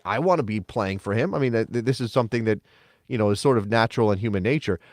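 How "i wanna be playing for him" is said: mock media answer. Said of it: "and talk to the media".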